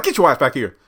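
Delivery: mock stern order. Elder Mother calling Lacey back, mock stern. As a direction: order her back, hammed-up.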